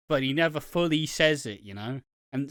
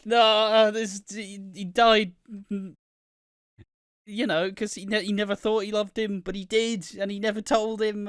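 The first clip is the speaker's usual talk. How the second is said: loud, high grief-stricken outburst; distraught outcry; 8 semitones higher, 6 dB louder than usual. Retold or imitated. Reacting to the dad never saying he loved him, loud high outburst. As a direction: cry out at the screen in grief. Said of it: "it's just like".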